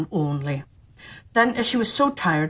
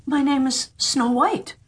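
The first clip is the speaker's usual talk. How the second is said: higher, slow, lightly voiced girl; Snow White; 5 semitones higher, slower than usual. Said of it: "she answered".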